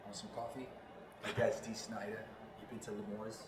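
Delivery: quiet, easy Long Island accent; understated Long Island accent demo. Shown as a demonstration. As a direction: slip into his old Long Island accent. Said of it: "I would be speaking like this".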